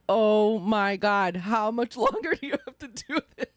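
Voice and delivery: exasperated, stretched-out "oh my God"; mock impatience. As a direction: imitate a partner tired of waiting. Retelling impatient partner's nightly complaint.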